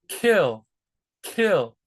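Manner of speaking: kill with a puff of air on the K; aspirated English K. Shown as a demonstration. Teacher demos English kill. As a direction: breathe out on the K of kill. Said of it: "Difference, right?".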